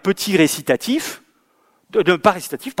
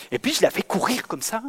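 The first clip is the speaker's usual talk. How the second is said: usual speaking voice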